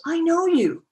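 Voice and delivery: high, loud hushed imitation of Kwame; imitating Kwame. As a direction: play the famous activist, intense and close. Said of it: "he turns to me and he goes".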